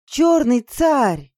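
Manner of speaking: loud, high, stretched-out cry; ecstatic yell. Acted. Girl hailing the transformation, ecstatic. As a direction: yell it slowly in sheer delight. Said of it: "в восторге завопила я".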